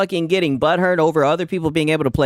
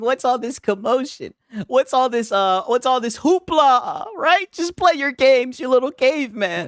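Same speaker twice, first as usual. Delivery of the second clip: higher, haughty, slowing on the last word; snooty PC gamer; 5 semitones higher than usual. Retold or imitated. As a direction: talk down from above like a toff, mildly hammed. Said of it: "PC guys looking down on you peasants saying".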